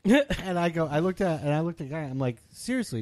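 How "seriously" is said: much higher exasperated "seriously"; high exasperated plea. Retold or imitated. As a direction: plead in exasperation. Confronting the guy.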